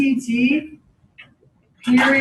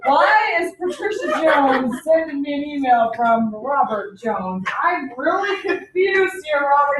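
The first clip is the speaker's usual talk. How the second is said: mock confused outcry; slower than usual. Teacher retells puzzled reply to student.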